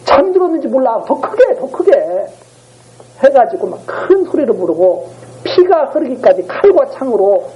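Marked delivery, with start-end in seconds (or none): 0.0-1.9 high-pitched taunting call; acted-out teasing, pitched way up; mocking jeer. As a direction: goad them mockingly to call harder. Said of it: "엘리야가 조롱하잖아요".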